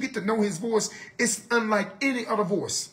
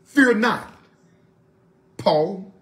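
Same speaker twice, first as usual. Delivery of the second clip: a firm announcing angel, louder on fear; angel's words; 3 semitones lower, 4 dB louder, much slower than usual. Retold or imitated. Preacher voicing the angel to Paul, firm and loud. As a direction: proclaim it like the angel. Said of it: "and this is what he said".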